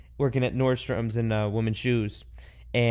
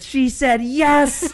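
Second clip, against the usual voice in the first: high, drawn-out celebratory cry; mock triumphant announcement; 10 semitones higher, 3 dB louder, much slower than usual. Man announcing his artichoke engagement, mock triumphant announcement. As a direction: announce it to the crowd, stretching it out.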